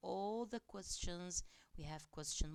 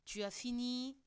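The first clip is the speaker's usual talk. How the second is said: questioning tone; 7 semitones higher, 3 dB louder than usual. Shown as a demonstration. Teacher modelling a question for students, high questioning tone. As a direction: ask it high with a lifting question tune.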